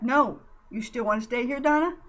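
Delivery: loud, urgent rebuke. Acted. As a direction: hold her back and challenge her. Jan grabs Donna back.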